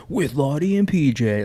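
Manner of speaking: slow dramatic show-intro voice; intense announcer voice. Retold or imitated. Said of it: "intense, like, announce voice?".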